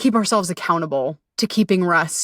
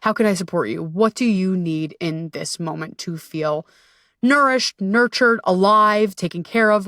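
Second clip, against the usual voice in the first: tender self talk. Shown as a demonstration. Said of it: "just lean in, ask your body".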